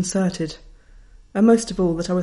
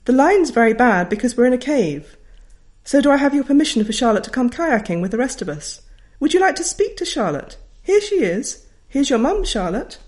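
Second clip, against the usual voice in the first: higher, loud and hearty; teacher shouting permission request from a cave; bellowing teacher; 5 semitones higher, 4 dB louder than usual. Retold or imitated. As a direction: boom it over a crackling line. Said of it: "bellowed Missus Kelvin".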